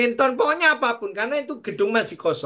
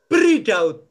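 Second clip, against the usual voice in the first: voice of God; 6 dB louder than usual. Retold or imitated. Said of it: "Ini Tuhan ngomong di telingaku".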